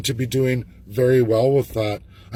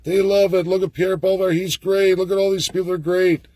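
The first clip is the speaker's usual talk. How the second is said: higher, airy fan gushing over politicians; mocking voter quote; 5 semitones higher than usual. Mocking Canadian voters praising Pierre Poilievre in a higher, gushing mock voice. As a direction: parody naive supporters with mock enthusiasm. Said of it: "A lot of you will say".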